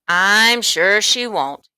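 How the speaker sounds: slow, sly agreement; knowing. A narrator's reading. Storekeeper winking at John, knowing and sly. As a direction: let the hidden meaning linger. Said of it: "winked knowingly".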